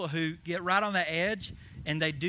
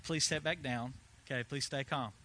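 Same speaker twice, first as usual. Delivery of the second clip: calming voice; 4 semitones lower, 5 dB quieter than usual. Retold or imitated. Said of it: "missionaries have to calm them down".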